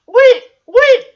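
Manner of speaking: high, loud, breaking into laughter; real giggle taking over the words; laughing. Real, not acted. Cracking up at own joke.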